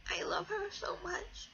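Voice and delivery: whispered through tears; a tearful, broken whisper of love; crying whisper. Real, not acted. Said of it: "I tried my best not to cry".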